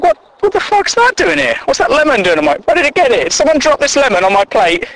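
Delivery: mock outrage. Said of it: "I'm like".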